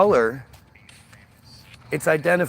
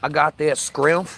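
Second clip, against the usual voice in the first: mock street accent. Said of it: "the whole screets".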